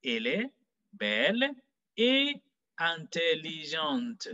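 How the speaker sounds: "et intelligente" very slow, separated, no T between; no liaison. Shown as a demonstration. Teacher repeats the correct sentence, slowly without liaison after "et". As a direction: model each word apart, "et" never linked to "intelligente". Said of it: "we'll be saying".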